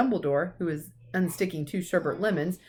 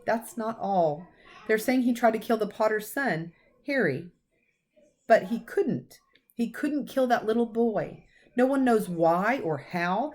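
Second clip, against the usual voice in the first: trembling voice; 4 semitones higher than usual. Acted. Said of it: "voice trembled as she went on".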